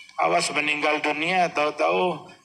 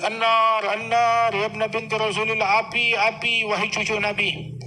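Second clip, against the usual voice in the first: retold shouting; 6 semitones higher than usual. People yelling fire at the praying imam, raised alarm. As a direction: call out in alarm that the house burns. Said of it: "orang-orang pada ngejurit".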